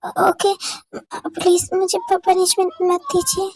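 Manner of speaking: lightly voiced girl, stuttering and pleading; nervous stammering girl. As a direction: beg for mercy, tripping over the words. Jimin pleading against punishment. (हल्की सी घबराई हुई लड़की, हकलाते हुए गिड़गिड़ाना)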